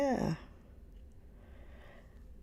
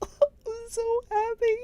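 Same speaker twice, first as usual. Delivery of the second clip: laughing happily; 4 dB louder, slower than usual. Real, not acted. Overjoyed after finding the books.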